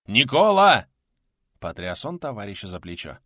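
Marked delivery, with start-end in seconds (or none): 0.1-0.9 louder, higher cry of the name; urgent calling. A narrator's reading. Man shakes his unresponsive friend, calling urgently. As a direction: shout higher to bring him round. Louder second call to comrade.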